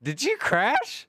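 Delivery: high, slow question through laughter; laughing. Real, not acted. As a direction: laugh out the words. Asks again laughing.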